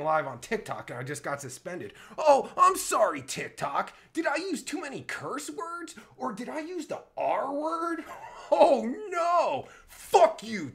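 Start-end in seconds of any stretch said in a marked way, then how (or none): 2.2-9.7 high, exaggerated fake contrition; sarcastic mock apology. Sarcastic apology to TikTok after suspension. 9.9-10.7 loud, high, defiant curse; angry outburst. Real, not acted. Curses TikTok over suspension.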